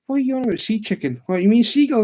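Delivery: high, baffled retort; incredulous questioning. Retold or imitated. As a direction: re-enact puzzling out a daft request. Acts out his baffled reply.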